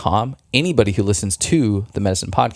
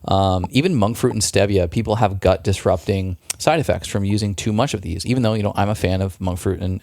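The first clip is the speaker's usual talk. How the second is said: ordinary talk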